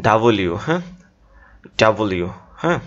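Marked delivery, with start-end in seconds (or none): 0.1-0.5 "ডাব্লিউ" in syllables, da-bo-liu; careful correct pronunciation. Shown as a demonstration. Teacher showing students the spelling, careful pronunciation. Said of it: "বাংলা কীভাবে লিখছি খেয়াল করো". 1.8-2.3 "ডাব্লিউ" in syllables, da-bo-liu; careful correct pronunciation. Shown as a demonstration. Teacher showing students the spelling, careful pronunciation. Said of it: "বাংলা কীভাবে লিখছি খেয়াল করো".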